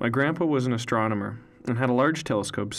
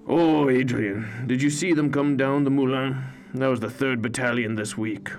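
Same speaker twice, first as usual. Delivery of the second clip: a chatty grandfather greeting his grandson; old grandpa; 2 semitones higher than usual. A narrator's reading. Grandpa voiced in story.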